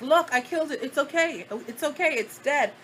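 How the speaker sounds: lightly imitated cousin's soothing baby talk. Cousin calming the crying narrator after the roach, mild baby talk. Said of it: "talking to me, like, the same way that you would talk to a baby".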